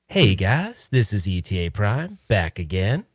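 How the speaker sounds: slightly wrong copied YouTuber greeting; ETA Prime voice. Retold or imitated. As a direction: try out a channel intro catchphrase, not quite right. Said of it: "so I'm trying to figure out".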